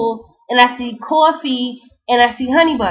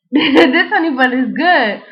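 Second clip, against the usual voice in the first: slow, laughing through the line; amused and slowed down; slower than usual. Retold or imitated. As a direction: chuckle as you savor it. Savoring honey bun, laughing take.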